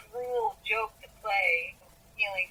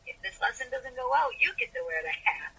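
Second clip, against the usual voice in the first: lightly imitated playful professor, lilting higher at first; sweet, joking; 5 semitones higher than usual. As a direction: tease sweetly, as a mock threat. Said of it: "hear him in a very sweet, joking voice".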